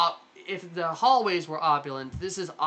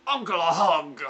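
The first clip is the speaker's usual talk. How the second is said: put-on booming, much higher old-man voice, thrilled to see her; jolly portly uncle; 5 semitones higher, 6 dB louder than usual. Uncle greeting his long-lost niece, booming high and delighted. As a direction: call out to your niece like a delighted big uncle. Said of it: "portly man with walrus mustache".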